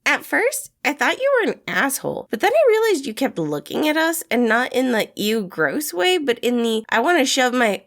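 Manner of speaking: poking fun at a grumpy loner; teasing young man; Remus, cheeky and teasing. A narrator's reading. Remus voiced in story.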